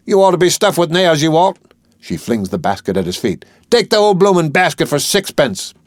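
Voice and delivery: desperate outburst. Acted. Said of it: "rises in desperation".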